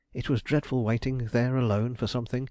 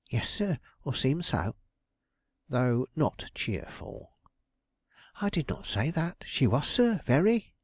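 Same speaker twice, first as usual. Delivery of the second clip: a hint of a put-upon woman, pitched up; a fretful widow lightly voiced, higher; lightly voiced aggrieved landlady; 5 semitones higher than usual. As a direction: complain as a flustered landlady. Belden contradicting.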